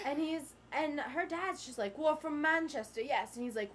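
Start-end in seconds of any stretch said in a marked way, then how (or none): 2.0-3.4 firm, louder mock English accent; imitated dad faking English; put-on English accent. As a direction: claim it in a fake English accent. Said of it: "That's an English accent".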